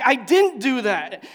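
loud, high, slow protest; retold yelling back. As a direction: re-enact a shouted denial. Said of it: "And I yelled back".

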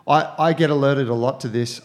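big hall echo; roomy echo on the voice; echoey. Real, not acted. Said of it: "I sound a bit echoey too today".

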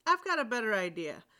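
steady storyteller reading a tale; story narration. A narrator's reading. Reader telling a troll tale to an audience, storytelling voice. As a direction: read it like a bedtime story for listeners. Reads a folk tale aloud.

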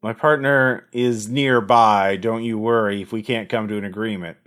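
a hint of a menacing caller; gravelly voice. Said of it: "a gravelly voice".

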